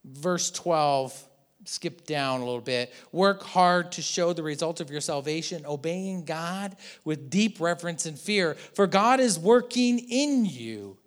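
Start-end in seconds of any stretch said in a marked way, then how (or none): 3.1-11.0 measured, earnest reading of Paul; scripture reading. Acted. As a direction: read the verses like a letter.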